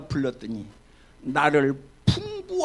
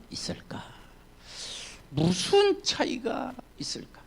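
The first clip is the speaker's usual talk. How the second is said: soft unvoiced whisper, drawing listeners in; whispered question; 7 dB quieter than usual. Pastor to congregation, hushed whispered question. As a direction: breathe the question out quietly. Preacher repeats question softly.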